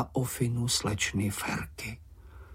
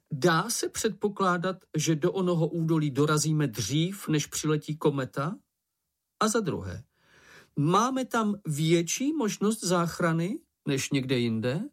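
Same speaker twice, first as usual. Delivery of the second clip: somewhat higher, methodical meeting voice; lightly voiced earnest chairman; 7 semitones higher than usual. Ferko reasons with the meeting about the comet, mildly officious. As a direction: set out each point with slight pedantry.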